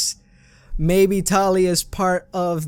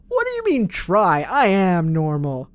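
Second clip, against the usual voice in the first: mock indignant; slower than usual. Real, not acted. Indignant at being called not normal.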